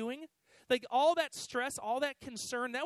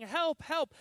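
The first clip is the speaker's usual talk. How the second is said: higher-pitched imitated call for help; mild mock yell; 5 semitones higher, 4 dB louder than usual. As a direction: act out a yell, held back. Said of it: "he keeps yelling".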